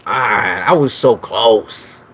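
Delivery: slow drawn-out complaint; dragged-out lament; slow groan. Real, not acted. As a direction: stretch it in frustration. Missed the guess.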